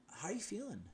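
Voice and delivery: high, hushed, alarmed whisper. Retold or imitated. Doctor phoning in alarm, a high concerned whisper. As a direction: breathe it like a worried doctor. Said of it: "voice was so alarmed and concerning".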